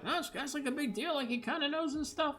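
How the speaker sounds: hushed aside. Acted. Reef's gestures voiced quietly.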